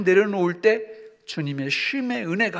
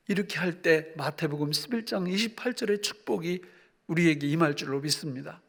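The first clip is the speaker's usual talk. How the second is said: ordinary talk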